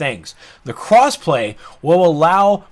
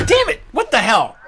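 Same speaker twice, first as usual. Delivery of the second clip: outraged shout; 7 semitones higher than usual. Real, not acted. Mock outrage at teasing.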